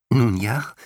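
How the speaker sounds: high, small voice; chirpy tiny being; tiny creature voice. A narrator's reading. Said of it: "meinte der Winzling und lächelte ein wenig überlegen".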